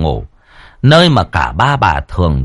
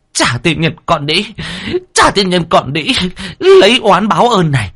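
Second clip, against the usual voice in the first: shrill cursing; 9 semitones higher than usual. Acted. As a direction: spit curses at the maid. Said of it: "mồm vẫn cứ ngoạc ra mà chửi".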